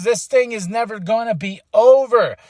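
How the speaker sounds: mild mock anger, calling him out; angry. Punk demanding Seth come out, mildly angry. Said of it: "He's angry".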